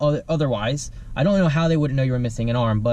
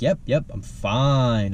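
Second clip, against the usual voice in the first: slow evasive reply; 3 semitones lower, much slower than usual. Retold or imitated. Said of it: "And he's like".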